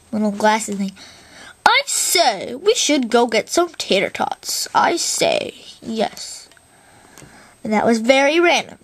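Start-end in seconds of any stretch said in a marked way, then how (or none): 1.7-4.7 top hat gent. Acted. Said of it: "that dude in the top hat". 4.7-6.5 top hat gent. Acted. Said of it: "that dude in the top hat".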